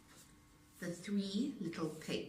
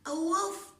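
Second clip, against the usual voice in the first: high voices; 12 semitones higher, 5 dB louder than usual. A narrator's reading. Dialogue on phone.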